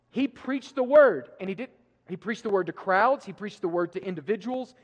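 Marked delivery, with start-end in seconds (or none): 0.1-1.3 slow emphatic proclamation. Real, not acted. Preacher hammering the point.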